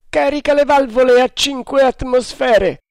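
high, loud command; barked order. A narrator's reading. Haider ordering the engineer, loud command. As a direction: bark the order down below. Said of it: "disse Haider".

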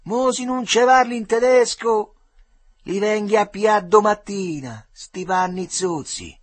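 high, loud yell from the far bank; bully shouting threats to the crying boy; shout across the river. A narrator's reading. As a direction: bellow it over the water. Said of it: "gridò al Piattoletta".

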